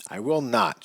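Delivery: high, sharp refusal; snapped. A narrator's reading. Wife snaps back at husband in the car, high and sharp. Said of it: "she snapped".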